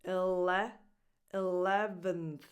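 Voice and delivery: "eleventh" built up from "ele"; slow "eleventh", short i first, stress on LEV; lax first vowel. Shown as a demonstration. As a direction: start "eleventh" with a relaxed ih. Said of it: "The first vowel is like a lax I".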